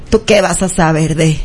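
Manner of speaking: low, halting put-down; disdainful challenge. Retold or imitated. Stranger at the prosecutor's office challenging the host, disdainful. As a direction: say it low with a pointed pause. Retold woman challenging the speaker.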